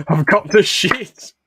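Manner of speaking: loud, high, drawn-out comic wail; hammed-up tearful confession; mock sobbing. A narrator's reading. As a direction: wail it slowly, half laughing. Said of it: "Medic sobbing".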